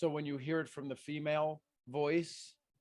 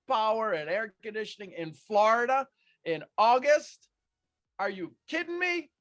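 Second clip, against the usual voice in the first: exasperated; 6 semitones higher, 5 dB louder than usual. Retold or imitated. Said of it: "I go".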